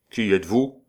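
haughty. Acted. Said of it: "demanda-t-il avec hauteur".

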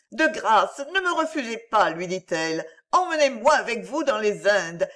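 put-on a girl gathering her courage; young heroine Virginie, resolved. Virginie asks to be taken to her father, high and urgent.

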